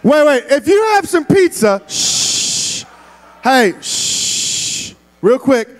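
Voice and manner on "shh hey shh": unvoiced shush; hushing. Real, not acted. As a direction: hush the crowd. Hushing the room.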